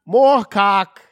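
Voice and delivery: high loud slow yelled order; crazy director. Retold or imitated. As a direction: bark it like a crazed director. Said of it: "crazy director going".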